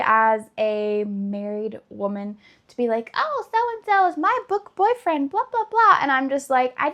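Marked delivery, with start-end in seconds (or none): 3.1-6.0 high, gushing fangirl voice; playful parody of a book-boyfriend fan, pitched well up; mock gushing fangirl. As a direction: gush like a swooning reader. Mocking a gushing reader.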